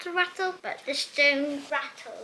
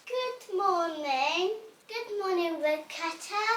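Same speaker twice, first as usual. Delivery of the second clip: calling out; 5 semitones higher than usual. Acted. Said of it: "called Little Red Riding Hood".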